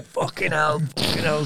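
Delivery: mock pained swearing; retold pained cursing. Man retelling being underwater in pain, mock pained cursing. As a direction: curse as if hurting, acted lightly. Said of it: "underwater in pain, going".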